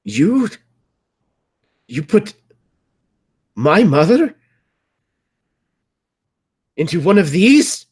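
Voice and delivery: very high, loud accusation; halting outburst, each piece flung out high and loud; horrified outrage. Acted. Son accusing Kadir over his mother, horrified and furious.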